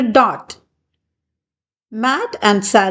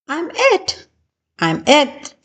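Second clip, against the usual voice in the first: shouted; 6 semitones higher than usual. A narrator's reading. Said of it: "shouted Sally".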